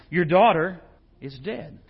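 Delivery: loud start, then falls to a hush on "is dead"; the messenger breaking it to the father; grim news. Acted. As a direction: deliver the death news and let it drop away. Messenger bringing news of death.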